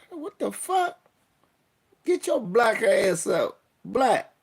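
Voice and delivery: retold shout at a junkie in the street; mock yell. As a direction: bark it at him to get up. Retold yelling at passed-out man.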